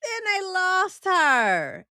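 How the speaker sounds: high, loud, drawn-out comic wail; laughing wail. Real, not acted. Host reacts to the doll being lost, laughing wail. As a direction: wail it slowly, overcome by the absurdity.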